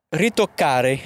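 Italian-accented game word. Shown as a demonstration. Game host announcing the next word, Italian accent. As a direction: put on your best Italian for the word. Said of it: "mon meilleur accent italien".

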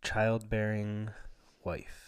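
slow, pompous, over-formal complaint; mock-grand. Real, not acted. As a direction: drag each word out grandly.

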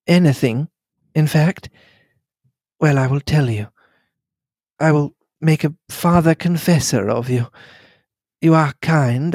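gently rebuff him with composure; lightly voiced gracious lady setting him straight; lightly voiced poised lady. Mary confides her past.

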